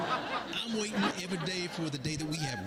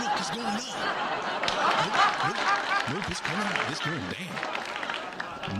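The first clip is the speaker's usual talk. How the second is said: mock excitement; 3 semitones higher, 6 dB louder than usual. Comedian mocking crypto charts, excited yells. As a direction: ride the chart swings loudly.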